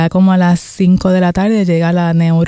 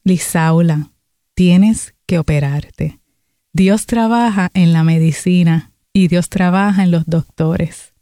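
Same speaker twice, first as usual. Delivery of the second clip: pastor's voice turns slow and grave; changed, firm voice; slower than usual. Retold or imitated. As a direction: lay it down slowly like an order. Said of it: "su voz cambia".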